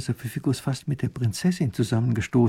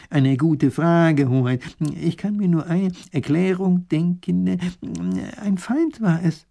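slow, higher ponderous scholar; professor; 6 semitones higher, 4 dB louder, slower than usual. Acted. Professor explaining to the duke, slow and ponderous. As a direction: weigh each word like a learned man.

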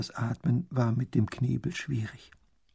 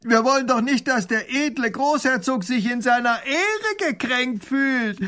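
high, very loud slow bawl; rowdy bandit bellow; robber bawling; 12 semitones higher, 6 dB louder than usual. Acted. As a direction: bellow the offer across the river. Robber mocks the duke.

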